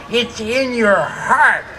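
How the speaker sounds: exaggerated imitation of a wicked witch. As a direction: screech it slowly like a storybook witch. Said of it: "He turned into like a witch".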